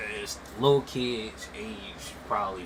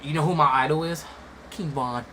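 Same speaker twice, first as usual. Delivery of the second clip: lightly voiced kid proudly naming an idol; imitated little kid; 4 semitones higher, 5 dB louder than usual. Imitating a kid from a video, lightly mocking. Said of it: "little kids coming up to you and be like".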